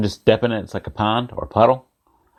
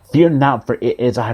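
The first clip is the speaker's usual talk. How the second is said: calling out. Acted. Jesus's words repeated to the congregation, firm unbroken call. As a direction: run together, starting firm, then easing. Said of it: "Jesus calls out to them".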